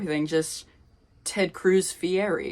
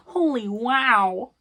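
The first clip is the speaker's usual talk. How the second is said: "Holy" stretched slowly with a high rising tune; high drawn-out holy wow; 6 semitones higher, 5 dB louder, slower than usual. Shown as a demonstration. Reacting to the chapter's reads with a high, slow rising voice.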